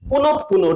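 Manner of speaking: পুনপ, পুনো with the p said twice; teacher demonstrating the doubled p in পুনপ, পুনো. Shown as a demonstration. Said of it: "প দুইবার হয়ে গেছে".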